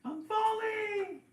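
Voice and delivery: high, slow, drawn-out shout; baby bird shouting as it falls; falling cry. Acted. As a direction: yell it as you drop.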